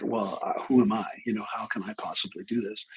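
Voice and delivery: softly voiced nervous inner doubt; nervous self-doubt. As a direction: think aloud, unsure of yourself. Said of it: "I get nervous, like".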